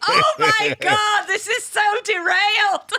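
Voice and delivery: high laughter breaking through words; laughing. Real, not acted. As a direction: crack up while talking.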